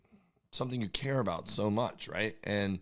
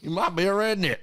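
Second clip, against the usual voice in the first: higher-pitched mock Southern redneck twang; redneck comic; 10 semitones higher, 4 dB louder than usual. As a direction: deliver it like a redneck stand-up catchphrase. Joins in the redneck bit.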